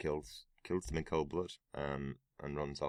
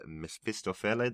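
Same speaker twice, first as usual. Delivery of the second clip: bad Italian accent on the opera name; 5 semitones higher than usual. Real, not acted. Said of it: "There's my terrible Italian accent for tonight".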